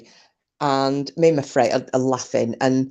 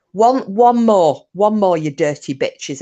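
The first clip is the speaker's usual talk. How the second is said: drawn-out, louder mock threat, then easing; imitated angry driver; 4 dB louder, slower than usual. Retelling the taxi driver's last warning, mock angry. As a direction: act out a driver at his limit. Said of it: "the taxi driver loses his shit".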